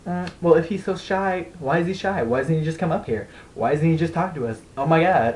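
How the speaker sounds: lightly voiced nagging girls; a hint of girly pestering, questions in a string; mimicked girls. Girls asking why the shy friend won't come over, lightly mimicked.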